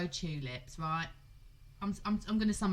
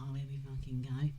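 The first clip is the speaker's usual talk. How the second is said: exasperated sneer; 8 semitones lower than usual. Retold or imitated. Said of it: "the woman was looking at me like".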